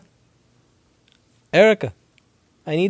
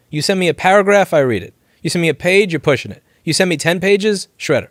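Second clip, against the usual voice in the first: building emphasis; 5 semitones higher, 4 dB louder than usual. Real, not acted. Escalating list of mail lengths.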